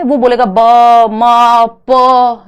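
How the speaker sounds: put-on loud single syllables ब, म, प, each said alone like a baby; babbling syllables. Shown as a demonstration. Teacher to class, demonstrating baby babbling. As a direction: sound out ब, म, प as separate baby syllables. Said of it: "ये सब क्या है, बैबलिंग है".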